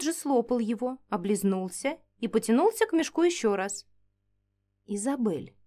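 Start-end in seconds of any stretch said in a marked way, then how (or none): 4.9-5.5 softly spoken name; quietly. Acted. Alexander quietly addresses Isabel by the fire, soft-spoken. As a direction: say her name softly, almost under the breath. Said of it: "тихонько проговорил Александр".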